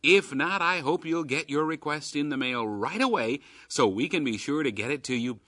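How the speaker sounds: upbeat radio promo read; chipper 1950s ad. Acted. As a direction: sell it like an old radio ad. Radio promo read for Keys for Kids.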